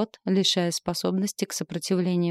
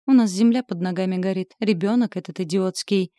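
mild growl; 4 dB louder than usual. Acted. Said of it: "прорычал он".

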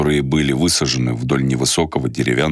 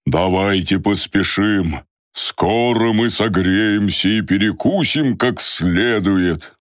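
put-on cheerful old man; 5 semitones higher, slower than usual. Old man cheering tired group.

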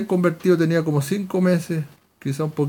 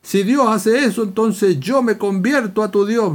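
higher, drawn-out scoffing retort; lightly acted mocking challenge; mocking disbelief; 4 semitones higher than usual. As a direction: imitate a scoffer making fun of a believer. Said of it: "se mofa de mí".

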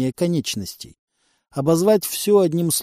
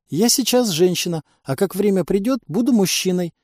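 испуганно; 6 semitones higher than usual. Acted. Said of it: "испуганно ответила пленница".

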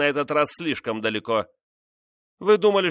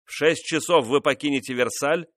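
louder, higher furious royal tirade; angry king; 5 semitones higher, 4 dB louder than usual. Acted. Louis scolding his insolent mistress, angry raised voice. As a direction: berate her, swelling to shouts on the king's name.

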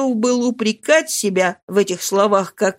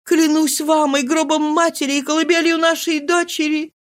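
higher desperate wife's voice; Marie, desperate; 8 semitones higher than usual. A narrator's reading. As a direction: swear it to him, voice raised higher. Marie's voice in the reading.

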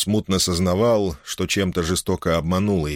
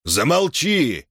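sharp shout; 8 semitones higher, much slower than usual. Acted. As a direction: cut her wailing short. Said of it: "прикрикнул".

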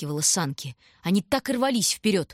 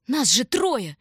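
put-on higher and louder, a boy shouting; angry yell; 7 semitones higher, 4 dB louder than usual. A narrator's reading. Shurka yelling at the stranger over the sled, angry yell. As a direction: bellow it at the stranger. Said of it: "заорал Шурка".

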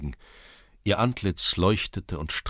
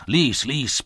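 loud, raised impatient order; commanding; 7 semitones higher, 7 dB louder than usual. A narrator's reading. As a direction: order the clerk to read, sharply. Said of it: "befahl der Schulze". (laut und hoch befehlen)

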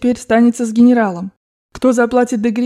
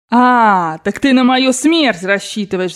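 mildly raised, drawn-out accusation; outraged yell; slower than usual. Acted. Grandmother accusing the General, indignant cry. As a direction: accuse him with slow indignation. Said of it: "завопила бабушка генералу".

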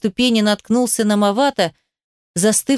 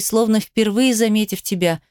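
ordinary delivery

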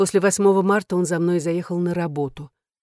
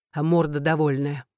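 ordinary talk

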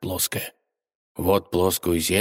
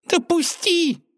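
much higher, tiny squeaking mouse; squeaky mouse hiss; slower than usual. A narrator's reading. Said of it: "шипела мышь".

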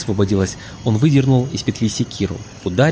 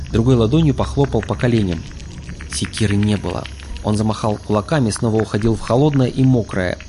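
ordinary delivery

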